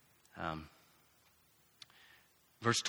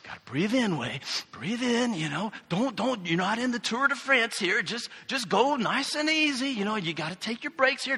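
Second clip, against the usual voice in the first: higher, easygoing pep talk to himself; calming self-talk; 5 semitones higher, 3 dB quieter than usual. Retold or imitated. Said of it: "and I just say".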